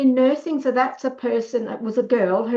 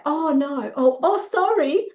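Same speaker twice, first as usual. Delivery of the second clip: high-pitched mock backpedalling; flustered apology; 5 semitones higher than usual. Bully caught out and backing down, flustered mock apology. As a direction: apologise hastily, pitch climbing. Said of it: "They'll have to say".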